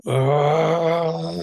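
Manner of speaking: long, high sustained "oh"; one drawn-out wail, as if tears just pour out; imitated crying moan. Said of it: "and tears just shedding down".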